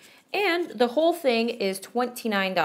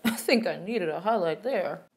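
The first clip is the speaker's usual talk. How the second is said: laughing. Real, not acted. Laughs while reversing what was said.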